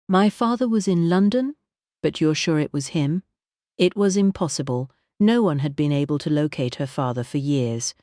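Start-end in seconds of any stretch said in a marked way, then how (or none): 0.1-3.2 astonished. Acted. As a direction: press for certainty. Kitty stunned.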